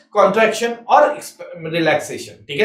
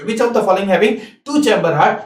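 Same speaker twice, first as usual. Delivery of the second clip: slow question, rising at the close; slow dictation, rising; much slower than usual. Shown as a demonstration. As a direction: read it slowly, ending on a rise. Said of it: "मान लो ये question पूछे".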